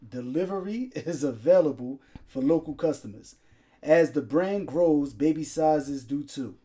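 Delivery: measured sponsor read. Acted. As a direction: read the sponsor copy in even phrases. Reads the sponsor's ad.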